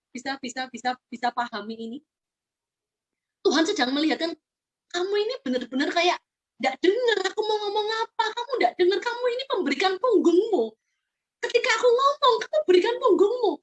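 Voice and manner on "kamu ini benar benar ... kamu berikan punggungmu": building frustration. Acted. (Tuhan makin kesal, suara naik dan keras)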